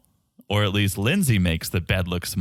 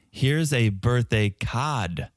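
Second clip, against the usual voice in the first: put-on "cod" for "card", slow, in Boston accent; much slower than usual. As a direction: read the card line slowly, Boston style. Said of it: "the Boston accent".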